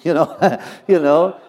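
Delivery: you know said through laughter; giggling aside; laughing. Real, not acted. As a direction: chuckle it out.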